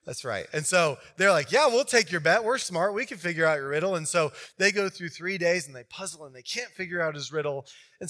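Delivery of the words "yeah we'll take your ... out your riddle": put-on cocky young men taking the bet; cocky groomsmen. Groomsmen boasting to Samson, lightly voiced brash cockiness.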